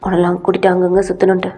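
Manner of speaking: low, earnest man pleading his side; low boyfriend voice. Acted. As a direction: explain yourself low and earnest.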